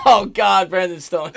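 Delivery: ordinary delivery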